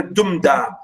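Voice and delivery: "dumda" with weight on "dum"; stress on first beat. Shown as a demonstration. Teacher sounding trochaic rhythm, "dumda" stressed on "dum". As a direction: beat out "dumda", strong then weak. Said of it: "Stress at the first".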